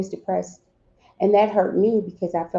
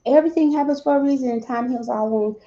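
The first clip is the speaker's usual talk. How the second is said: higher, quickening mock platitude; quoting others' platitude; 5 semitones higher than usual. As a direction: reel off a well-worn saying as others say it. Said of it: "Now, people say".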